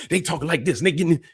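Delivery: high, animated demo of family talk; expressive loud talkers. Shown as a demonstration. Host showing how his sisters talk, high and animated. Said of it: "but they loud talkers".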